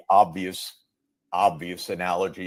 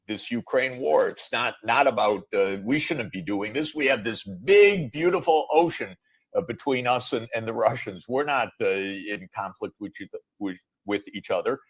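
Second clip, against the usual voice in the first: quoting Trump; 3 semitones higher than usual. Retold or imitated. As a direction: lightly imitate Trump's boasting. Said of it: "uh, said".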